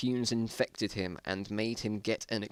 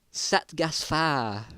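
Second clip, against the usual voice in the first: mock pain cry; 5 semitones higher, much slower than usual. A narrator's reading. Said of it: "Is that supposed to be like a".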